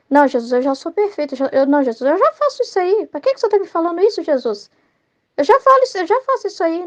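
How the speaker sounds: a mock offended "I already do that"; indignant know-it-all. Proud person arguing with Jesus.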